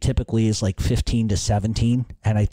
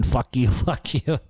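retold scream; slower than usual.

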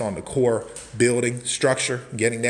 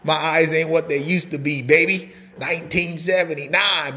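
higher, louder, laughing through it; 5 semitones higher, 3 dB louder than usual. Real, not acted. Host laughing about squinting at messages. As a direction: laugh while joking about your eyes.

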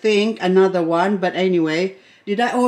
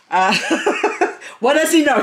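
laughing scoff; 6 semitones higher, faster than usual. Real, not acted. Laughing at husband's remark.

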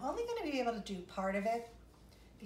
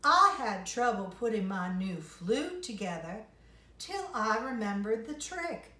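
fox voice; 7 dB louder than usual. Acted. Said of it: "said the fox".

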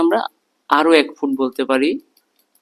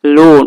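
লোন said with a forceful, louder stress; stressed syllable; 9 dB louder, much slower than usual. Shown as a demonstration. Teacher showing pupils a stressed syllable, লোন pushed out with force. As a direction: lean hard on লোন. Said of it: "ভিতর থেকে একটু কাঁপতেছে".

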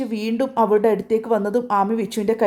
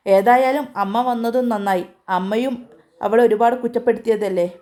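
contemptuous. Acted. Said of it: "പുച്ഛത്തോടെ വിച്ചു".

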